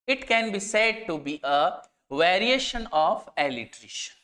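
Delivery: slow, deliberate dictation pace; slow definition reading. Shown as a demonstration. Teacher reads a definition so students can copy it, slow dictation. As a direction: read it out word by word for students to note down.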